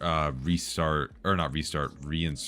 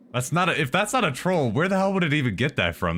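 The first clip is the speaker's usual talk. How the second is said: loud, high disbelief; can't believe what he's reading; shocked outburst; 10 semitones higher, 5 dB louder than usual. Real, not acted. Shocked at a troll message.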